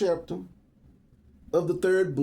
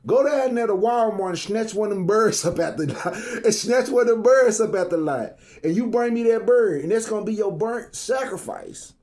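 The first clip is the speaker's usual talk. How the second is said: pastor voice; 4 semitones higher, 3 dB louder than usual. Retold or imitated. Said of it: "He say".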